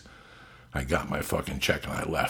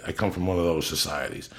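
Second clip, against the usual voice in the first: ordinary delivery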